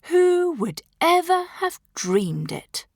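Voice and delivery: high, slow, wondering voice. A narrator's reading. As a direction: marvel at it out loud. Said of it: "John says wonderingly".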